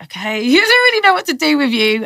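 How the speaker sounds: high, loud laugh through the officers' words; laughing mock police. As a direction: mimic baffled officers, laughing. Police baffled by her.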